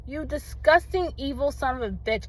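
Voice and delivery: retold furious telling-off. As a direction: tell her off as if she's right there, full of rage. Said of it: "I was so angry".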